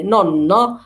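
slow "نونو" with a held n; doubled n. Shown as a demonstration. Teacher showing a double n, doubled n. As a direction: linger on the middle n of "نونو". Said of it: "لازم ننطقها مرتين".

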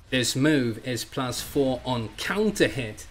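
slow, measured analyst voice; lightly voiced explainer; Arya impression. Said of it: "my Arya impression".

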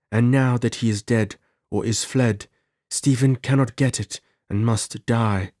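earnest Zuleika. Acted. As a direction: warn urgently in a lightly put-on female voice. Voices Zuleika warning Gordon.

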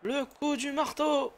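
dramatic announcer. Acted.

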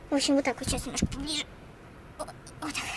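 soft unvoiced whisper. Real, not acted. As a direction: whisper it so the dog stays calm. Quiet aside while positioning dog.

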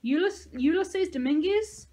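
high, loud, slow disbelief; shouted question of stunned recognition; astonished shout. A narrator's reading. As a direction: stammer the name out in amazement. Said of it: "and then she shouted".

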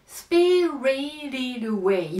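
"スピリティッドアウェイ" slowed and linked as one word. Shown as a demonstration. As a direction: draw out "スピリティッドアウェイ" with a tapped d. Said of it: "ゆっくりやっていくよ".

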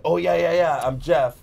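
slightly hammed-up eager agreement; lightly mocked impostor, quick to agree; imitating phone scammer. Scammer posing as grandson Jeff, lightly mocking. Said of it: "and then they're like".

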